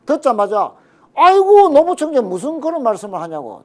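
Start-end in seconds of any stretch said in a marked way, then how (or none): 1.1-3.6 loud, high, effusive imitation of an approving elder statesman; Kim Dae-jung. Party leader retold answering his deputy at once, effusive. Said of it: "디제이 대통령이 듣자마자".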